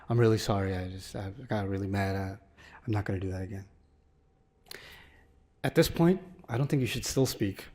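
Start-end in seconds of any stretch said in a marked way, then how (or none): 0.1-3.6 much lower and softer, sorry and subdued; a remorseful kid owning up quietly; contrite teen apology. Retold or imitated. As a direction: son apologizing to silent parent, low and contrite. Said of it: "Kareem's like".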